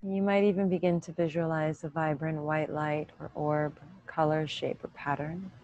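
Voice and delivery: calm, even meditation voice with long pauses; unhurried yoga-teacher meditation cues; guided meditation. Real, not acted. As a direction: guide them gently inward, leaving room to breathe.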